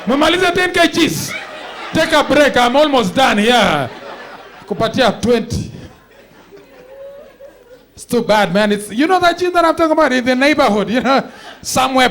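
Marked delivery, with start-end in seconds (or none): 0.1-5.7 gym owner voice. Retold or imitated. Gym owner shouting at a customer while welding. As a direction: bellow it like a busy gym owner. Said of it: "He's like".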